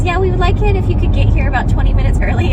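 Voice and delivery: a hint of a chirpy receptionist. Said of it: "She goes".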